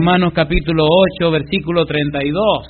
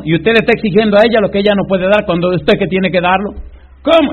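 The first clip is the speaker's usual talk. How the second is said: rising, louder preacher rebuke; mock scolding; 5 semitones higher, 4 dB louder, faster than usual. Preacher retelling how he scolded the husband, building shout. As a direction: hammer him with each ¿Cómo?.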